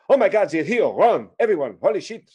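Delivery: mock a French soldier fleeing in terror; hammed-up French alarm, pitch jumping; mock French panic. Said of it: "I would make fun of the French".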